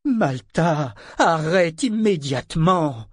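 loud, high, slow command; stern order. A narrator's reading. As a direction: call the child sharply to order. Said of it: "ordonna Ronica".

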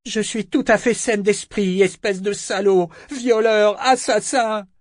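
high, loud outraged accusations; enraged roar. A narrator's reading. Althea hurls accusations at her attacker, roaring. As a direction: hurl each insult in fury. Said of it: "rugit Althea".

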